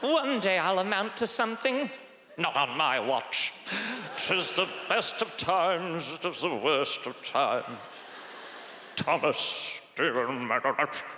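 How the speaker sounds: lightly voiced Victorian characters; Dickens characters. Victorian figures trading lines, mildly theatrical. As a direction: ham up a Dickens novel. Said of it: "Charles Dickens novel".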